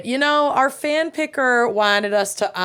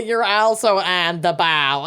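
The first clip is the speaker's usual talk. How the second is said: A singer impression. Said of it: "our best singer impressions".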